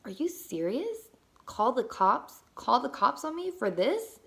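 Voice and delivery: incredulous questions, pitch swooping up at the ends; mock disbelief, rising high on each question; retold disbelief. Woman challenging her sister's threat to call cops, retold disbelief.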